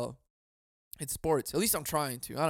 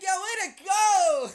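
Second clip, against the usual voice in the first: much higher, slow mock cheer; sarcastic cheer; 6 dB louder, much slower than usual. Real, not acted. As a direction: cheer yourself on ironically. Sarcastic praise of screen time.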